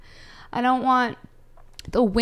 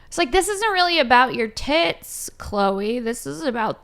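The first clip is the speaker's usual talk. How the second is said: higher and louder, calling her out; mock scolding; 4 semitones higher, 4 dB louder than usual. Telling off Chloe for her shirtless Earth Day post, loud mock scolding. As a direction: snap at her like a fed-up friend.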